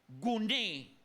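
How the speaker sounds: Guné, stressed on the last syllable; Guné with the accent falling on É; stress on final É. Shown as a demonstration. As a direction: say Guné slowly, landing on the final é. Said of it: "con tilde en la E".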